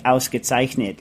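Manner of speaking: flat American Ausgezeichnet, plain English vowels; American accent. Shown as a demonstration. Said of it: "like a, an American".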